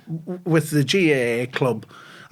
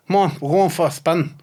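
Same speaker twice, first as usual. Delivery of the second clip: mildly raised calling-out; retold shout; 2 semitones higher than usual. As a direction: call it out, retelling a shout lightly. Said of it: "and shouted out".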